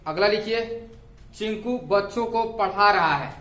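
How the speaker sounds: slow, measured dictation with pauses between phrases; classroom dictation. Real, not acted. Teacher dictating homework sentences for students to write, measured dictation. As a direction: dictate each phrase deliberately for note-takers.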